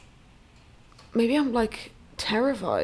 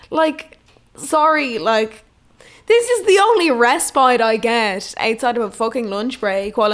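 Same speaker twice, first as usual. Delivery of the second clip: exasperated rant; 4 dB louder than usual. Retold or imitated. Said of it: "And I'm like".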